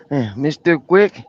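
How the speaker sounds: slow, drawn-out Tattoo impression; lightly voiced Tattoo from Fantasy Island. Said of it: "He sound like Tattoo".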